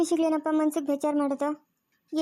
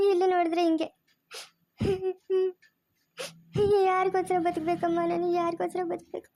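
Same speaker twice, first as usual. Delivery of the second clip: tearful complaint fading to a sob; crying; 2 semitones higher than usual. Acted. Deceived wife sobbing to her mother about her marriage. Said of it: "ಅಳ್ಬೇಡ ಸುಮ್ನಿರಮ್ಮ".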